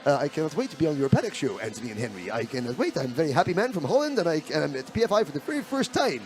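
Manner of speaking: put-on a light, quick Dutch accent on a cheerful quote; Dutch accent impression. Commentator imitating a happy Dutch driver's message, mild Dutch accent. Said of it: "well, in his Dutch accent".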